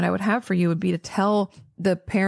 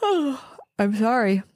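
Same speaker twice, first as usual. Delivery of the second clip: yawning; 3 semitones higher, much slower than usual. Real, not acted. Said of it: "I'm yawning".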